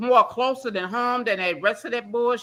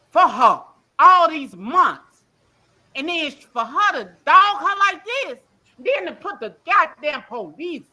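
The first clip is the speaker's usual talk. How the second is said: angry outburst; 4 semitones higher, 5 dB louder than usual. Real, not acted. Caller venting angrily about eviction.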